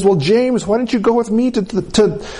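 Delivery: high, pleading retold lament; crying mother. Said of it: "And she's crying".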